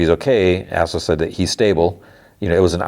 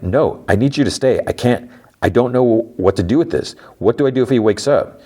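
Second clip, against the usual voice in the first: higher-pitched, mildly desperate plea; imitated urgent appeal, pitch raised; retold pleading; 6 semitones higher than usual. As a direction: plead with someone not to leave, lightly acted. Devin begs Assel to stay.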